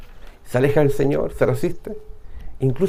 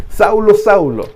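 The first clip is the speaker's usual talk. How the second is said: calling by name; 3 semitones higher, 4 dB louder, slower than usual. Acted. The Lord calling Paul by name.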